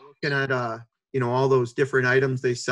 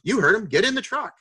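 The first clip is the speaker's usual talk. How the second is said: coach barking an order; 8 semitones higher than usual. Retold or imitated. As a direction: order the team in, no arguing.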